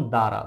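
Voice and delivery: দ্বারা said as "dara"; দ্বারা with the ব-ফলা left silent. Shown as a demonstration. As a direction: say দ্বারা with no b or w sound. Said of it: "এই ব এর কোনো উচ্চারণ হয়নি".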